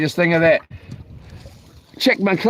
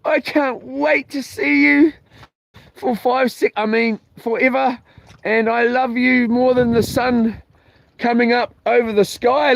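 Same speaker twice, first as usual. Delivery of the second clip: mushy love message; 5 semitones higher than usual. Retold or imitated. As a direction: coo it like a sappy text to your sweetheart. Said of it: "messaging my love this morning saying".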